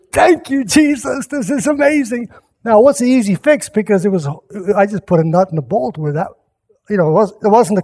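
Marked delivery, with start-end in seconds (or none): 0.1-2.3 higher, lightly thrilled thank-you; mock-joyful, higher praise; excited thanks. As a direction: lift it up in happy praise. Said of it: "I said".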